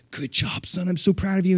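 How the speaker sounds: soft, hushed praise to a son; quiet tender encouragement; fatherly whisper. Retold or imitated. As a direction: whisper pride like a gentle dad. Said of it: "he's like".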